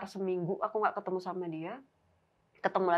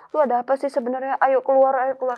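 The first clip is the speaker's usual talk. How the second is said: loud, frightened demand; frightened yell; 4 semitones higher, 10 dB louder than usual. Retold or imitated. Narrator yells at a friend's ghost, scared and loud. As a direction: shout it out to drive off what scares you.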